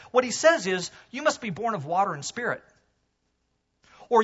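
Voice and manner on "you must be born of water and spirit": water and spirit said fast, joined up; run together as one phrase. Shown as a demonstration. Preacher showing the phrase belongs together, said in one quick breath. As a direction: rush it as a single thought. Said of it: "is tied very close together".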